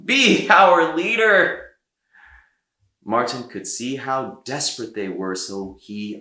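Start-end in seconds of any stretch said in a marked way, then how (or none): 0.1-1.6 high, louder, slow plea; townsfolk begging. A narrator's reading. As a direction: beg him to lead them.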